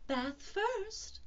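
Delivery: high, cheery singing-out; cheerful. Acted. Kanga telling Roo it's bath time, cheerful. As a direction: announce it cheerfully, lifting the pitch. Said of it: "said Kanga in a cheerful voice".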